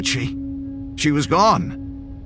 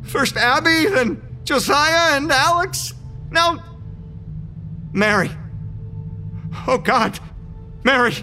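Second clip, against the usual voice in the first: much higher, near tears, begging; desperate pleading; 10 semitones higher than usual. Acted. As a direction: panic rising as everyone vanishes. Desperate pleading, all gone.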